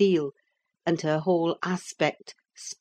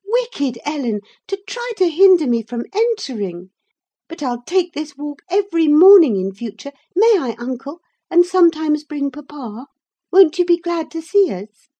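put-on high, loud, eager girl's voice; eager girl pleading with her uncle; excited young girl; 11 semitones higher, 8 dB louder than usual. A narrator's reading. Young Catherine's voice.

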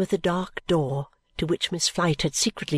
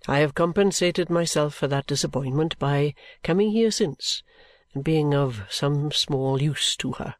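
grave voice; 3 semitones lower than usual. Acted. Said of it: "in a grave kind of voice".

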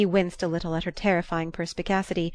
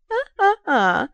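put-on teasing old lady; 4 semitones higher, 5 dB louder than usual. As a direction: catch him out with a cackling tease. Old lady teases Archer.

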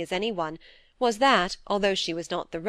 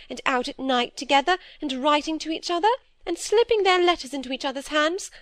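higher, fretful little-sister voice; timid younger sister; 7 semitones higher than usual. Acted. Phoebe fearfully confessing to her sister, higher anxious pleading.

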